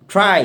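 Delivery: ট্রাই with a clear R after the T; R pronounced. Shown as a demonstration. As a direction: sound the R in ট্রাই. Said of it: "রায়ের উচ্চারণ হবে".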